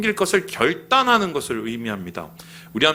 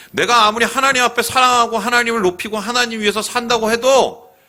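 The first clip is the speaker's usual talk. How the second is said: higher, louder impassioned preaching; 목청을 높여 호소하듯 외쳐; preaching at full force; 7 semitones higher, 4 dB louder than usual. Acted. (열정적으로 외치는 설교)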